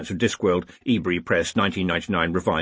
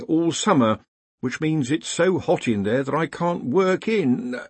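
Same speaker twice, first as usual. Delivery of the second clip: higher-pitched, long-suffering complainant; aggrieved underling; 6 semitones higher than usual. Acted. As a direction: complain upward in a raised character voice. Complaining employee in the story.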